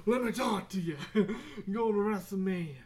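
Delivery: mock wrestler boast, laughing between lines; hammed-up wrestler talk; wrestling promo. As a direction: play at cutting a promo. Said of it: "doing a promo".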